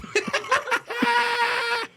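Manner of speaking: high shrieking burst of laughter; big shrieking laugh. Real, not acted. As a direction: cackle at your own bit. Laughing after his own intro.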